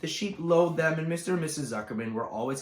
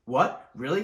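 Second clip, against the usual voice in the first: cried; 3 semitones higher, 6 dB louder than usual. Acted. Wilbur crying out to Charlotte in sudden hope. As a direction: burst out in hopeful disbelief. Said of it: "cried Wilbur".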